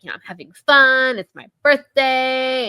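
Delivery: high, loud mock-defensive protest. Jen excusing herself to Sydney, defensive. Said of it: "Jen, still on her defensive".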